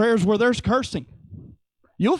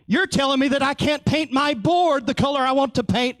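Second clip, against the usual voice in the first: lightly voiced indignant child, higher; whiny playground pushback, pitched up; mock indignant kid; 5 semitones higher than usual. Preacher playing a child barring others from church, mock indignant.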